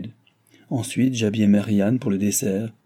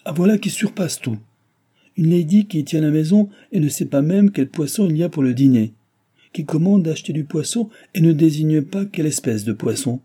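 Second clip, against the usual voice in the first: higher, louder indignant tirade; outraged husband; 7 semitones higher, 4 dB louder than usual. A narrator's reading. Husband outraged that his wife doesn't know the fish, higher and louder. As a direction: scold her as if nothing could be worse.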